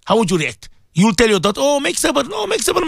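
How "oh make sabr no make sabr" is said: high-pitched placating father voice; lightly acted coaxing, pitched high; mock soothing father. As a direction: hush a daughter with pleading reassurance. Imagined father soothing his daughter.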